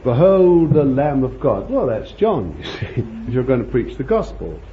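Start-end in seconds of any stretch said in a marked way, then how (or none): 0.0-1.7 mild preacher's proclamation; preaching. Acted. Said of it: "you preach".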